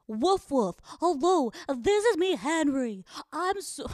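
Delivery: high-pitched, wimpy dog voice; Henry as a wimp. Acted. Owner mocking dog captions as the dog, wimpy. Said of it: "Henry sounds like a fucking pussy".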